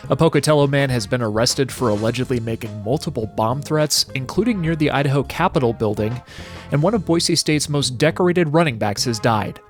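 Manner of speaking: crisp radio headline read; news reader. Acted. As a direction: read it like a morning newscast. Host reads the headlines.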